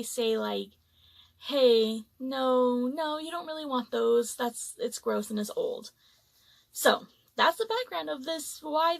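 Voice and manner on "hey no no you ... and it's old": polite refusal. Retold or imitated. Buffet worker steering customers off old toppings, politely. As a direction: politely talk them out of it. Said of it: "in a polite way".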